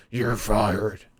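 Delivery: lightly growled boss catchphrase imitation; a hint of a wrestling boss firing someone; Vince McMahon. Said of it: "She did in, like, a Vince McMahon voice".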